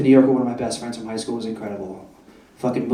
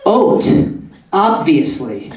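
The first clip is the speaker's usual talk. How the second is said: customer's retort; 3 dB louder, much slower than usual. Retold or imitated. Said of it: "She follows it up with".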